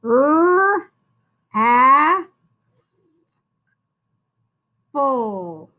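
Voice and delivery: "R, A, full" as long separate sounds: rrr, a, full; sounded out. Shown as a demonstration. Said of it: "two Fs in this word".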